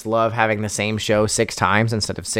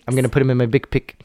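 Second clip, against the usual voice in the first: put-on South African accent, tight vowels; faster than usual. Shown as a demonstration. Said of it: "and then a South African".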